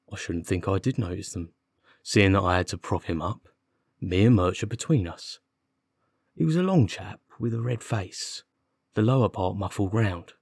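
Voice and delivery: lightly voiced irritated policeman; a touch of grumbling constable; put-upon constable. Constable answering the detective's pressing questions, mildly put-upon.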